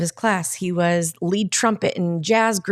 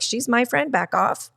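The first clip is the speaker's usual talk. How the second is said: lightly possessive, starting higher; mock possessive; 5 semitones higher than usual. Friend hears others praise the therapist, mock possessive. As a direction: play at jealously claiming a friend. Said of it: "I even get a little possessive".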